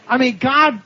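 ordinary talk, nothing marked

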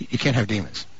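ordinary talk, nothing marked

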